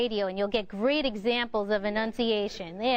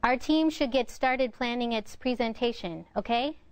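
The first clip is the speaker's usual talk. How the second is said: rising "okay" tacked on the end; statement ending in a questioning "okay?"; tag question. Shown as a demonstration. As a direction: make the statement, then check with a lifted "okay". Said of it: "okay or a right on the end".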